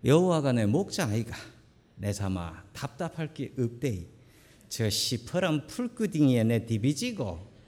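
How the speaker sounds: a hint of Gyeongsang accent, blunt and rolling; Gyeongsang dialect. Shown as a demonstration. Pastor lightly imitating Gyeongsang dialect for the congregation, blunt. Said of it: "경상도 버전은 이렇답니다".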